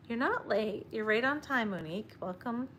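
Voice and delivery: pet talk. Real, not acted. Owner welcomes her dog in a high sweet voice. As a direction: greet the dog like a cherished guest.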